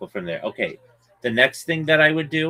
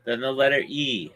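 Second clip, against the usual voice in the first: spelling it out; 3 dB quieter than usual. Shown as a demonstration. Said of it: "I'm spelling it for you".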